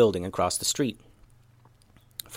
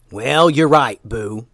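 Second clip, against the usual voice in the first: Momo conceding; 6 dB louder, slower than usual. Acted. Momo agrees with the ninja's point, character voice. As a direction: agree in a put-on hearty voice.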